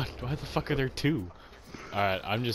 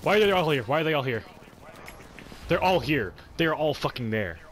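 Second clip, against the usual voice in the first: exasperated; 4 semitones higher, 5 dB louder than usual. Real, not acted. Exasperated at enemies everywhere.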